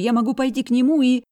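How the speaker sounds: put-on high, loud defiant girl's voice; high loud defiant sister; angry girl. A narrator's reading. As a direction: tell him he's not the boss. Sister threatens.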